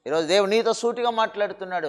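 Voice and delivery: ordinary talk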